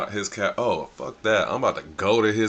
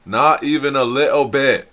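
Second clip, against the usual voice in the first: hyped exaggeration; 5 semitones higher, 9 dB louder than usual. Real, not acted. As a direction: pile it on with glee. Hyping up the praise.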